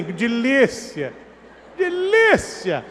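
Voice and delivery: slow, drawn-out "Delícia, delícia"; mock lustful moan. Preacher mocks the cheating man, slow lustful moan. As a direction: stretch it out, savouring. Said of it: "ele fica assim".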